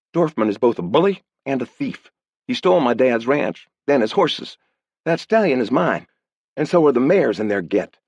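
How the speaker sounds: put-on girl furious at Dorfman; indignant girl. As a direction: defend her horses hotly. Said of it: "Her eyes flashed".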